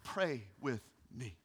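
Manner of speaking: low, soft and slow pleading; quiet, slow request; soft plea. Retold or imitated. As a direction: draw the listeners in gently.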